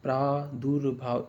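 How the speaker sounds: प्रादुर्भाव divided as "praa-dur-bhaav"; correct pronunciation. Shown as a demonstration. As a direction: sound out प्रादुर्भाव with a short u. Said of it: "इस तरह से होना चाहिए".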